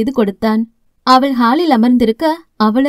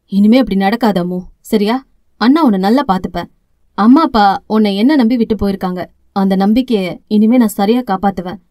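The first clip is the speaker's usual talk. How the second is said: emotional promise; 4 semitones lower than usual. Acted. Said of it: "என உணர்ச்சி வசப்பட்டு பேசினான்".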